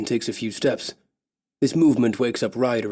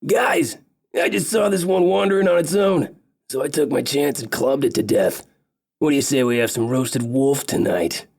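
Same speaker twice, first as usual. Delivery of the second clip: lightly voiced big elf, a bit raised and cheery; funny big elf; 4 semitones higher than usual. Big elf telling the others about the wolf, lightly voiced cheery elf. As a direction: play the funny big elf proudly showing off his kill.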